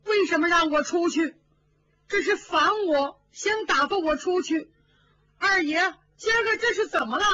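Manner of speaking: high, fast, crying protest; a frightened maid weeping to her master; tearful plea. A narrator's reading. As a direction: plead through tears, rushing the words. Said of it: "他哭了".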